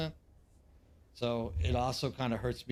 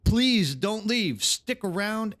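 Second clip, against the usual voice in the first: pleading; 7 semitones higher, 5 dB louder, slower than usual. Real, not acted. Begging chat before the raid.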